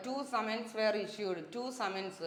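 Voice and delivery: slow, deliberate reading of the example; slow example sentence; slow dictation read. Shown as a demonstration. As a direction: read the sentence out slowly for the class. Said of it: "two boys എന്നാണോ two boy എന്നാണോ".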